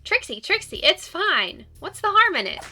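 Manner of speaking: high, breathless panic; gasping out words in a rush; panicky. Acted. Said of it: "You sound like you're hyperventilating".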